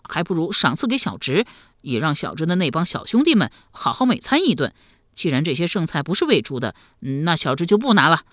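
put-on lively, lightly boyish voice; a touch of naive youngster; artless young nephew. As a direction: chatter on like a frank lad.

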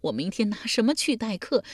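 weeping lament, high but not yet at full force; pleading through tears, held back a little; wailing. Acted. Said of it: "嚎啕大哭道". (哭诉，稍收着)

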